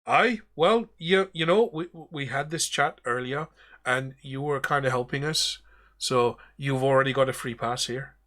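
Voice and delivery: captain brushing off the bosun; captain telling the bosun he is already free; Davy Jones. Acted.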